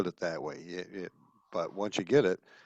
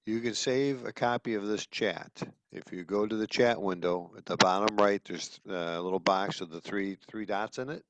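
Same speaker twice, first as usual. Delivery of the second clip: louder, firmer instructions; speaking up; 4 dB louder than usual. Real, not acted. Repeating chat steps for someone who couldn't hear, louder. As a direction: project so the listeners can hear. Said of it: "can you speak a little louder".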